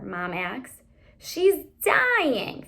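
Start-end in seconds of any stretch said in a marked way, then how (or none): 1.2-2.6 a touch of melodrama, raised high; dramatic declaration. A narrator's reading. Teen sister declaring the dog is dying, melodramatic. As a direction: declare it like a tragedy. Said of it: "Fanny declared dramatically".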